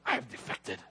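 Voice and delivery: soft, low deadpan; deadpan confession. Retold or imitated. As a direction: mumble it like a guilty secret. Teen jokes to Cubans.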